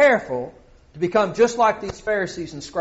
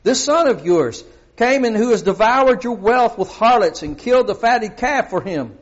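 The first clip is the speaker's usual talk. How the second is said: louder, bitter complaint about the brother; resentful older son; 4 semitones higher, 4 dB louder than usual. Acted. Older son complaining bitterly to his father about the brother. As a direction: spit out this son of yours like a grudge. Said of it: "this is the way this guy talked".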